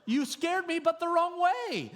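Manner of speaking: high, loud, laughing through the point; preacher laughing as he drives the lesson home; laughing preaching. Real, not acted.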